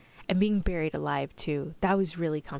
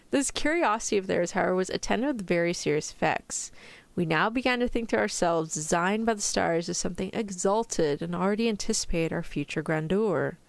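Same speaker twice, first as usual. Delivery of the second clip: story narration. A narrator's reading. Reads a novel aloud.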